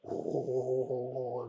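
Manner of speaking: long wavering "oh" like an echo; imitated echoing laugh. Speaker mimicking a colleague's laugh carrying far, echoing. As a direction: draw it out as a mock echo of laughter. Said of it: "laughter that vibrates like an echo".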